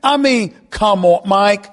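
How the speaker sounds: high, loud exasperated tirade; worked-up sports-radio outburst; incredulous rant. Real, not acted. Host rants through the team's schedule.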